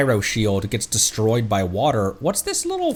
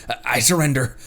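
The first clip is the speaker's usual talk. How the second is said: usual speaking voice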